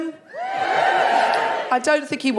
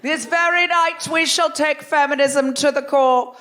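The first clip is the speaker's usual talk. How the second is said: grand theatrical proclamation, slightly raised pitch; hammed-up Shakespearean declaration; mock Shakespearean; 4 semitones higher than usual. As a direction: declaim it like a Shakespearean rallying cry. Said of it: "quite Shakespearean from over here".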